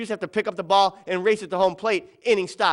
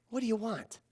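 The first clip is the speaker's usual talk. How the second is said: irritated coach; 4 semitones higher, 10 dB quieter than usual. Retold or imitated. Annoyed coach walks back over.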